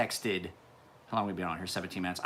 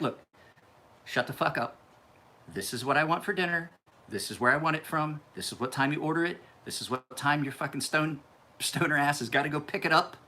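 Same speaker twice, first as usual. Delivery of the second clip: impersonating my sister; 4 semitones higher than usual. Retold or imitated. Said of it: "that's my Sarah Emler impersonation".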